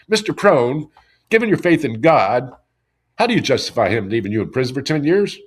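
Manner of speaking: a hint of the reporter's earnest way of asking; mild mock reporter putting the hard question; imitating the reporter. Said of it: "and this is how he talked".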